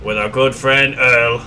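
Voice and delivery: put-on hammy British wartime-speech accent; terrible British accent. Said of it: "sorry for my terrible accent".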